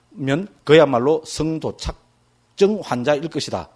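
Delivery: reading aloud. Acted.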